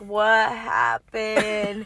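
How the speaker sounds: very slow, groggy raspy imitation; raspy sleepy voice. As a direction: drag it out like barely awake. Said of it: "her raspy voice, like, barely waking up".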